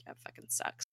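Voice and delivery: barely voiced, under the breath, a defeated shrug; whispered mumble. Deke, sure his dad is dead, whispering it away. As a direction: mutter it like it hardly matters.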